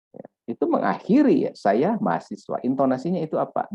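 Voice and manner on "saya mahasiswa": "saya mahasiswa" stated with a falling end; statement intonation. Shown as a demonstration. Lecturer showing students how a sentence ends, statement intonation. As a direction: say "saya mahasiswa" as plain news, pitch dropping at the end. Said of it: "Berita, pernyataan".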